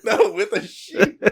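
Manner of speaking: mock Yiddish old man accent; exaggerated Yiddish grandpa accent. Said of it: "I already did dying Jewish grandpa".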